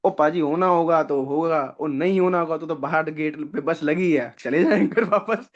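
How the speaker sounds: slow, easygoing Punjabi drawl; relaxed Punjabi. Retold or imitated. Punjabi candidate shrugs off his twelfth attempt, slow carefree Punjabi. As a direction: lean back into a carefree Punjabi tone, slowly. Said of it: "उस बंदे का बारहवाँ attempt, कोई tension नहीं".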